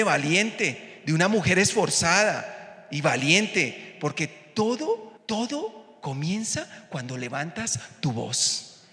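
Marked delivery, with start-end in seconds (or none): 4.0-8.8 soft and slow. Acted. Preacher drops to intimate close.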